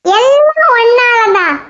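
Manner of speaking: slow, sulky accusation; sulky blame. Acted. Friend sulks and blames her pal for the lost time. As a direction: drag out the blame sulkily. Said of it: "திடீர்னு முகம் மாறிடுச்சு?".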